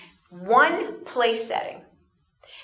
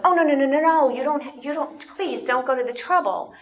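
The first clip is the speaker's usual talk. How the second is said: flustered protest; 5 semitones higher than usual. Retold or imitated. Overwhelmed guest protesting to hostess, flustered. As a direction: wave off the fuss, embarrassed. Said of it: "my immediate reaction was".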